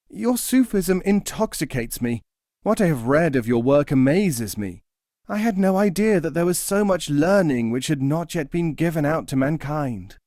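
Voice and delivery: eager pious man. Acted. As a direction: gush over the master's words.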